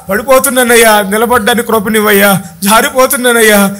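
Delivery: demonstrated plea for mercy; acted prayer cry. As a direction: plead with God, phrase after phrase. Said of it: "ఏంటయ్యా మీ కేక".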